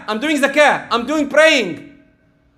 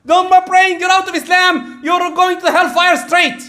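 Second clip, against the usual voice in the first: harsh condemning rebuke; 8 semitones higher than usual. Acted. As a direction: bark it at him like a self-righteous judge. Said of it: "Don't tell him you're a kafir".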